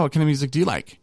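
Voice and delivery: mock flustered date voice; flustered echo. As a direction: toss "What kind of music do you like?" back in a panic. She echoes the question back.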